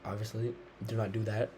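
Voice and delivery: talking around a wad of gum; words slurred by chewing gum. Real, not acted. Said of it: "I'm talking weird with the gum in my mouth".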